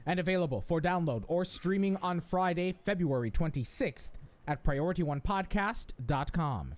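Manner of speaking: polished announcer delivery; lifted, projected host read, drawn-out ending; podcast intro read. Real, not acted. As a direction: announce the show to the listeners. Reads the show's intro.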